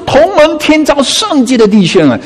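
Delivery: high, stirred scripture quote; lifted, heartfelt exclamation; savouring verse reading. Acted. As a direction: read the verse as if moved by it. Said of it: "当你慢慢在读的时候".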